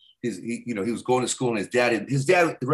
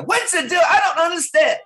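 much higher, shouted scolding; put-on scolding voice; 7 dB louder than usual. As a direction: squeal the complaint way up high like you're chewing someone out. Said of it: "But if I do my regular voice".

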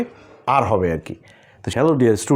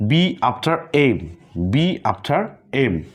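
rule said slowly; much slower than usual. Shown as a demonstration. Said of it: "অর্থাৎ".

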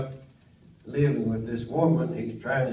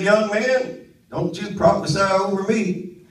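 a hint of a feisty old lady scolding; sassy old lady; 7 semitones higher, 8 dB louder than usual. Old lady scolding her young doctor, a touch higher and louder. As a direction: put the young doctor in his place, lightly. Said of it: "She don't know how to talk to a doctor".

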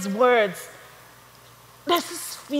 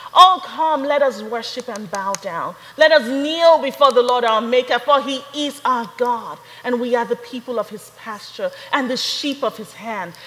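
scripture reading. Acted. Preacher reading the psalm to the congregation, reverent. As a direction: read it as worship, opening with a call. Reads the next Psalm verses.

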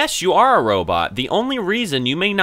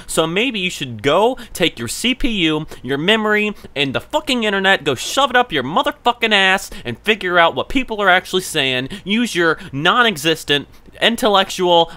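angry rant; 6 semitones higher than usual. Real, not acted. Ranting at the chatbot.

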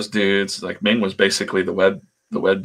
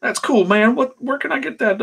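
high, eager faux-hillbilly voice; Robert Kirkman. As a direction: imitate a keen fake hillbilly fan, pitched way up. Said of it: "a pretty good Kirkman that I'm doing".

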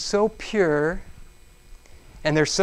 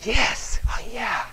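powerful joy; 5 semitones higher, slower than usual. Acted. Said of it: "powerful joy".

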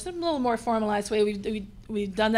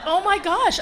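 laughing dismay; 9 semitones higher, 4 dB louder, slower than usual. Retold or imitated.

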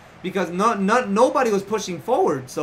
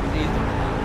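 whispered plea; 3 semitones lower, faster than usual. Real, not acted. Begging again.

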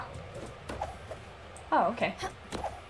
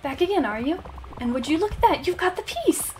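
lightly voiced grand, self-important patron; pompous gentleman. Snobbish patron praising Stella for the wood print, lightly pompous. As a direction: read it as a lofty art collector. Reads a haughty character's lines.

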